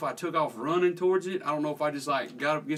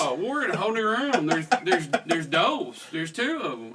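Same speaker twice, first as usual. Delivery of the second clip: raised, louder mock alarm at two squirrels; 5 dB louder than usual. Teacher retelling to friends, mock alarm.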